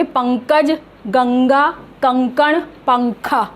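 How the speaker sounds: पंकज, गंगा, कंकण, पंखा with ng before the consonant; nasal from the throat in पंकज, गंगा, कंकण, पंखा; pronunciation demo. Shown as a demonstration. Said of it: "इसको हम बोलेंगे".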